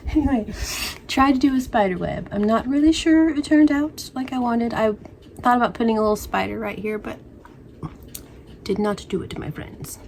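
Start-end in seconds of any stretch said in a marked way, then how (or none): 0.1-4.7 put-on English accent. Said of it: "I don't know why I'm English". 9.4-10.0 low, soft whisper; creepy whisper. Pretend. Host whispering a creepy aside to her friends.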